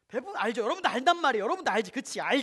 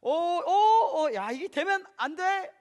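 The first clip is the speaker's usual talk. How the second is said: slow, higher-pitched dithering parent; hammed-up over-patient parent, words stretched; mock coaxing parent; 6 semitones higher, 7 dB louder, much slower than usual. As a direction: draw out a feeble "don't" to a toddler. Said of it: "이럽니까? 안 그렇죠".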